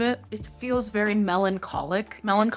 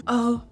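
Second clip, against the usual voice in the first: sharp gasp, then a higher "oh"; re-enacted gasp; 4 semitones higher, 4 dB louder than usual. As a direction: gasp as if struck by a scent. Retelling her first sniff of perfume.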